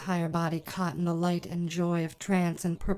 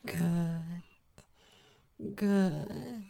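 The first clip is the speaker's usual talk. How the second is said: amused approval. Acted. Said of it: "you hear the smile in her voice".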